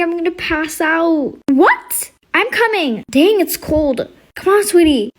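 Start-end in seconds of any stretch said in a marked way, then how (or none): 1.5-5.1 higher motherly voice, coaxing; a hint of a fussing mom; high-pitched mom voice. Mother comes to help.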